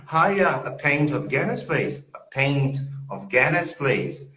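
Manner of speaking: playful imitation of a Scottish accent; fake Scottish accent. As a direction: order a drink in mock Scottish. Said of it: "my fake Scottish accent".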